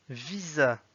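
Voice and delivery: "Visa" read as Russian, stressed "VI-za"; Russian pronunciation. Shown as a demonstration. Teacher reading words with learners, "Visa" in Russian. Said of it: "s'entraîner à lire les mots".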